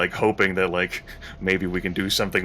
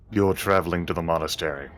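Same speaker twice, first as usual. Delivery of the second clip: smooth dragon voice. Acted. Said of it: "Smooth green dragon voice".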